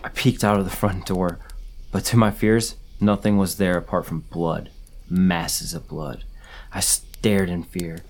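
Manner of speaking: dramatic first-person horror story reading; read-aloud campfire horror tale; story narration. A narrator's reading. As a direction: tell a scary story, stressing key moments.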